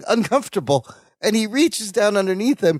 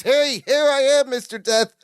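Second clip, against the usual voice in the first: higher-pitched cocky announcement; mock cocky; 5 semitones higher than usual. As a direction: call out a cocky taunt, retold. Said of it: "turns to the window all cocky".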